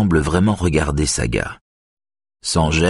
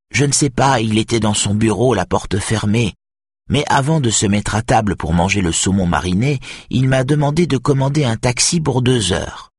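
lightly voiced old lady, higher pitch; a hint of an elderly witness, pitched up; old woman testifying; 7 semitones higher than usual. A narrator's reading. Narrator voices old Edith's testimony. (vieille dame qui témoigne, voix un peu aiguë)

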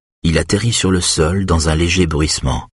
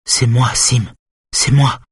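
higher-pitched woman's voice, reassuring but urgent; Simone, urgent; 5 semitones higher than usual. Acted. Simone tells Schulman who is there, urgent higher voice. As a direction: reach out to a patient who barely hears.

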